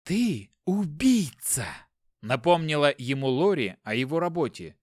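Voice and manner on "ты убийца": slow accusation. Acted. Wife accuses husband.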